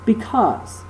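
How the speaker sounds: because with a light be- and accented -CAUSE; stress on second syllable. Shown as a demonstration. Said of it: "the first syllable of the word is unaccent".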